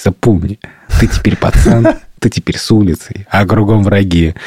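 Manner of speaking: lightly voiced gopnik tough; a hint of a street tough; russian street thug. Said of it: "как гопник такой".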